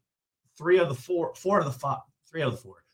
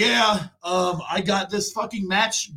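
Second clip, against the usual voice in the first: higher, shouted promo opener; mock wrestler promo; 5 semitones higher, slower than usual. Imitating Billy Gunn starting his promo. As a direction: ham up the wrestler's entrance line. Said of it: "He's like".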